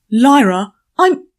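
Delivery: sudden loud angry shout. A narrator's reading. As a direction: snap her name out loud. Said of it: "look at the shout".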